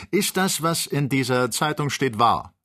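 hoch und laut aufgebracht rufen; ausgerufen. A narrator's reading. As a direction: die Frage dem Freund entgegenschleudern. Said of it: "rief jetzt Kennedy". (laut und hoch rufend)

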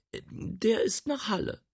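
very high answer; high housekeeper answer. Acted. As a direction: chirp it out. Rosine answers.

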